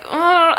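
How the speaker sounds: high mock groan of pain; imitated moan. Patient wheeled over bumpy ground, imitated moaning. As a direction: act out a short pained moan. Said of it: "I'm, like, moaning".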